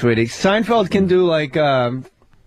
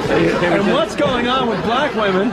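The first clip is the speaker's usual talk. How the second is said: Seinfeld impression; slower than usual. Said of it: "do a little more".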